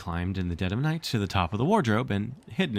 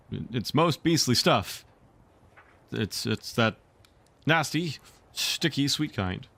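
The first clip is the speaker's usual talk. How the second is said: shuddering; 4 semitones higher, slower than usual. Acted.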